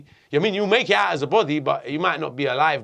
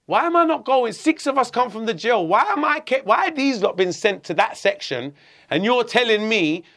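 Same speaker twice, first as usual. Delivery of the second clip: higher-pitched retold protest; indignant questioning; 4 semitones higher than usual. Prisoner challenging the warder over special treatment, indignant. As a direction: demand an explanation, voice pitched up.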